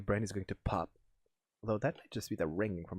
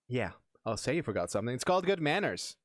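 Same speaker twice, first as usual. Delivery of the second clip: put-on Valley Girl voice. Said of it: "the Valley Girl voice".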